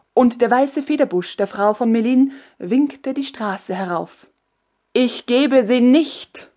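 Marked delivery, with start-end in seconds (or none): 4.9-6.5 slow, icy and measured; cold refusal. Acted. Empress refusing the soldiers, slow and cold. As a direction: refuse them coldly. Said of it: "erwiderte Katharina kalt".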